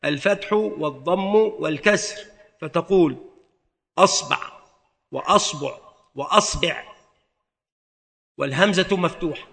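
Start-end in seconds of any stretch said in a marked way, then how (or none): 4.0-6.8 أصبع with fatha on the hamza, ba read with fatha, then damma, then kasra; vowel variants. Shown as a demonstration. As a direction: spell out أصبع three ways, changing only the ba vowel. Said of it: "ويجوز في الباء ثلاثة أوجه: الفتح والضم والكسر".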